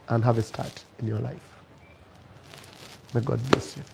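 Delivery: low, soft, resigned goodbye; acted parting words, quietly sincere; gentle farewell. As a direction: let her go tenderly, pausing between phrases. Man's sad farewell to his love.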